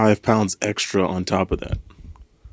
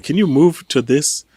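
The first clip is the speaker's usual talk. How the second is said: put-on slow, a higher try at a Colombian accent; Colombian accent attempt; 4 semitones higher, slower than usual. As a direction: drag out a half-hearted Colombian accent. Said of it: "I'm trying to replicate his accent".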